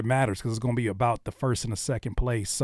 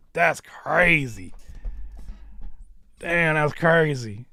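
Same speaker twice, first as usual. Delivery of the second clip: amazed; 3 dB louder, much slower than usual. Real, not acted. Repeated amazed reaction, drawn out.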